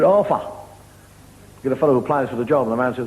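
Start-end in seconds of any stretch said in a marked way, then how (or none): 0.0-0.4 "Offer" for Arthur, with F for TH; Londoner's TH as F. Acted. London kid giving his name, "Offer" with F in place of TH. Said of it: "It's like the kid said".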